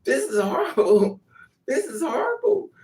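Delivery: growing comic horror; mock dismay building. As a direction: escalate to a squeal of despair. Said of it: "you like".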